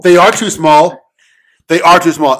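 loud, insistent complaint. Real, not acted. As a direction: stress that they really are. Defends complaint about sandwiches.

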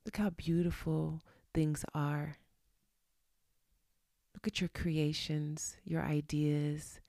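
slow breathy whisper. Real, not acted. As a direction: draw them in with a hushed, slow voice. Softly leads a gratitude reflection.

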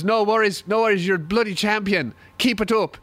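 lightly imitated Irish accent. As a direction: cheer him on with a touch of Irish accent. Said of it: "he was Irish too".

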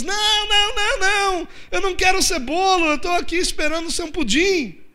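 high, pleading protest from a cake ingredient; high mock wail of chocolate refusing to be a cake; chocolate shouting in the mixer. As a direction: play the chocolate begging not to become a cake. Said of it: "o chocolate lá gritando na batedeira".

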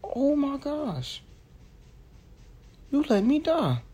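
high, slow, wailing betrayed whine; overacted death scene. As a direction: drag it out, wounded and dramatic. Melodramatic betrayal while dying.

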